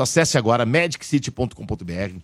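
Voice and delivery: upbeat announcer promo voice; radio ad read. Acted. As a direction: sell it like a radio spot.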